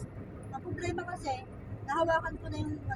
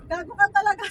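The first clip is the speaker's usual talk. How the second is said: laughing mock scold, louder; retold teasing; 5 semitones higher, 13 dB louder than usual. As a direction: tease a friend with a loud insult. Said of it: "Sabi niya". (pabirong sigaw)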